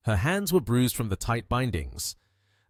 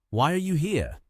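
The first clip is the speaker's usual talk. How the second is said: through clenched jaw; 6 semitones higher than usual. Acted. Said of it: "He clenched his jaw and asked".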